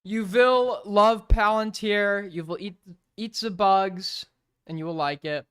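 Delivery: slow, loud sneering decree; mock dystopian command. Streamer mocking a political slogan, slow and loud. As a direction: intone it like a menacing slogan.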